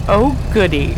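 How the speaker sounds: breathy giggle around a sarcastic "oh goody"; coy laugh. Acted. Con woman laughing off the detective's date offer, mock delight. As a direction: tease him with a girlish, mocking giggle.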